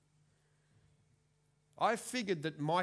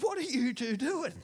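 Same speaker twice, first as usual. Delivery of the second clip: mock calling out; 10 semitones higher, 7 dB louder than usual. Calls to kids in back.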